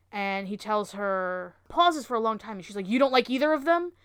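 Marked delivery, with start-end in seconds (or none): 2.9-3.9 raised, louder retold challenge; mock aggressive challenge. Wife confronts him over outfit choice, mock aggressive. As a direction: challenge him, imitating her push. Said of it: "she's very aggressive with him".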